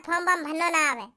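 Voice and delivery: sneering echo of the excuse; mocking. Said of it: "अबे चूतिया".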